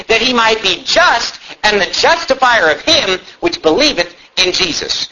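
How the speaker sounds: scripture read with key words punched; emphasized reading. Shown as a demonstration. Preacher reading Romans to his church, key words stressed. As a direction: lean on the words that matter as you read. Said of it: "notice the words I'm emphasizing here".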